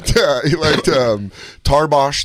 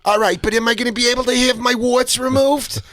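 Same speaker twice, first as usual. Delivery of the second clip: put-on higher, whiny old man voice; imitating Saul; 10 semitones higher than usual. Saul calling about his warts. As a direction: whine it like a fussy old man. He's like.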